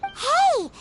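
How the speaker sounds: high, bright "Hey!" of discovery; quick eager shout-out; sudden call. Acted. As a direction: call out to grab attention. Spots words on the hilt.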